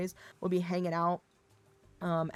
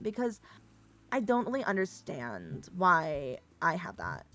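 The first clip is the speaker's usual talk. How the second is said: put-on slow, drawn-out Valley Girl drawl; Valley Girl accent; slower than usual. Shown as a demonstration. Streamer puzzled by their own accent, drawn-out Valley Girl. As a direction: stretch the words like a Valley Girl. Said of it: "with a Valley Girl accent".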